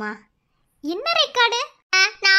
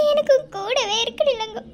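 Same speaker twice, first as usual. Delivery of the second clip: tearful plea. Acted.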